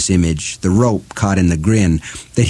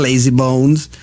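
cackling witch; 4 semitones higher than usual. Acted. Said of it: "She cackled again".

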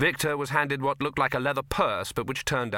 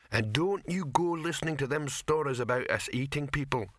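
troll voice; 4 semitones higher than usual. Acted.

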